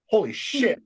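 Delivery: a dad's mild mock astonishment, rising at the end; imitating a stunned father; dad's stunned exclamation. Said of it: "that was my dad's expression".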